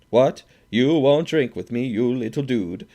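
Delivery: loud, high, outraged; enraged. A narrator's reading. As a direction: sneer and shout at him. Drunk Swede enraged at gambler.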